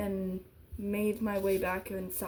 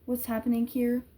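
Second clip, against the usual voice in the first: reading a thriller aloud, even and steady; story narration; 4 dB louder than usual. A narrator's reading. Vlogger reads the book page to viewers, steady narration. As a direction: tell the story to the viewers, keeping it moving.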